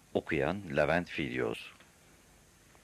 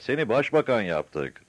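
slow, raised, high-pitched call; shouted announcement; 5 semitones higher, 5 dB louder than usual. A narrator's reading. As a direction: proclaim it loudly to someone far above. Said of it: "diye bağırdılar".

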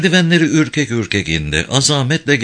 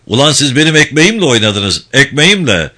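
louder, stressing "ekmeğimle" twice; angry accusation; 3 dB louder than usual. Acted. Director accusing the guards of risking his job, angry stress. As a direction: throw "ekmeğimle" back at him.

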